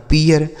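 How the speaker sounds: पियर said "pee-yar", ee gliding to r; two-beat पियर ending in "-yar"; ear vowel glide. Shown as a demonstration. Teacher shows how R changes it, पियर as "pee-yar". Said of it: "ई ए का उच्चारण ई".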